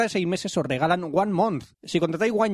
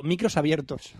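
low deadpan announcement; low-voiced studio warning; mock announcer; 5 semitones lower, slower than usual. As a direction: drop the pitch for an official notice. Mock announcement interrupting the chatter.

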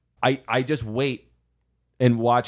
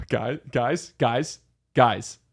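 mock panicked pleading; much slower than usual. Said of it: "what does that look like".

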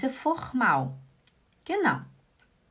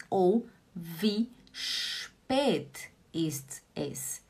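very slow whisper, trailing off; 4 semitones lower, 4 dB quieter, much slower than usual. Shown as a demonstration. Teacher whispering the alternative phrase to students. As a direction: draw the words out on breath alone. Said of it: "teacher offers the alternative".

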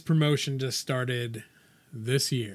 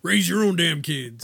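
mock inner grumble; 4 semitones higher, 6 dB louder than usual. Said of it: "inside you're like".

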